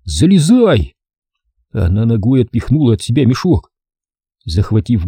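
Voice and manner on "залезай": grumbled. A narrator's reading. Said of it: "проворчал".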